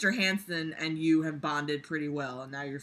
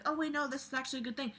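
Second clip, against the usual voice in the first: mock realization; 7 semitones higher, 8 dB quieter, much faster than usual. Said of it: "being like".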